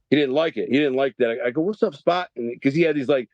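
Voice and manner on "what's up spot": higher, teasing taunt; mock taunt. Taunting the bully in jail, mock greeting. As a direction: needle him with a jeer.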